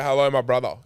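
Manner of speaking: hearty mock-Russian greeting; Russian accent. Russian hotel worker greeting a countryman, Russian accent. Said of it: "'cause I am Russian".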